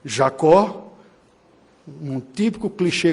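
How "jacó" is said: ordinary talk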